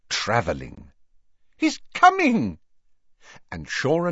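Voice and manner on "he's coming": high, thrilled announcement; excited cry. A narrator's reading. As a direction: call out in relief. Clock shows husband travelling.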